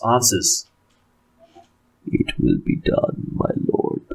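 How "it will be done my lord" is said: meek servant. Acted. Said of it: "in a meek, high-pitched for Eastmarch voice".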